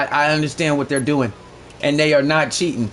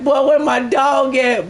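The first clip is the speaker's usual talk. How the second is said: excited call; 7 semitones higher, slower than usual. Retold or imitated. Hyped calling out for friend.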